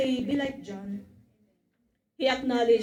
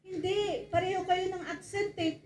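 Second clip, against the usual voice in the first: higher, softer woman's voice pressing; accusing woman; 5 semitones higher, 4 dB quieter than usual. Acted. The woman telling Peter he shares Jesus' accent. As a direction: voice a nosy woman catching him out.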